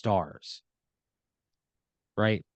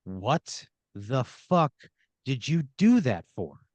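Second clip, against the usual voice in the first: drawn-out voice from behind; slower than usual. Pretend. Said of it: "a voice from behind you go".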